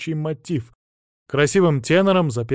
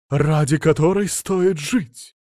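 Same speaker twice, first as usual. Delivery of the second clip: overjoyed; 3 semitones higher, 4 dB louder, slower than usual. Acted. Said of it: "обрадовался он".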